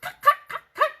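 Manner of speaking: loud high hen squawk; frantic cluck-cluck of a hen hit on the head. Acted. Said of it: "squawked poor Henny Penny".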